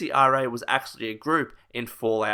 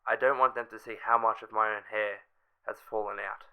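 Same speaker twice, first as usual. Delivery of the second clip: shortwave radio voice; 2 semitones lower, 4 dB quieter than usual. Acted. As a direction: read it like a faint distress call over shortwave. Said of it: "of this in a shortwave radio voice".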